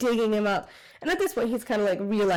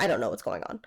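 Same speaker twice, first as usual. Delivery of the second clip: low, dazed mumble; lightly voiced loopy guy, lower and softer; 11 semitones lower, 4 dB quieter, faster than usual. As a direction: sound drugged and lost. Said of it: "he's still loopy".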